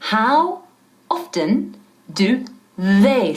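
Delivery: How often do they said slowly with tongue between teeth on they; slow careful how often do they, tongue out for th. Shown as a demonstration. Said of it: "Sacando la lengua".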